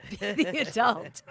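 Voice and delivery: slow, loud stage whisper. Retold or imitated. Husband whispering to his raging wife, slow stage whisper. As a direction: imitate an urgent coaching whisper. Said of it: "whispering to me".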